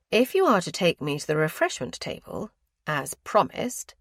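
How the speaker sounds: aunt reminding her nephew of his promise, stressing as promised; emphasizing as promised. A narrator's reading. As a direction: lean on as promised. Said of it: "emphasizing the last words".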